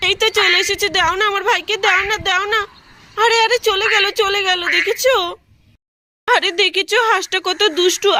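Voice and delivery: a hint of a child asking for her brother back; little girl voice. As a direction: coax the duck like a small child begging. Child Pinki pleads with duck.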